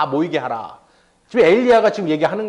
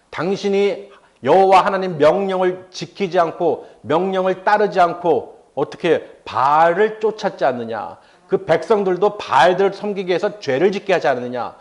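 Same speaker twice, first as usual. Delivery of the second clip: bold accusation. Retold or imitated. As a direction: press the charge firmly, stretching key words. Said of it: "담대하게 말합니다".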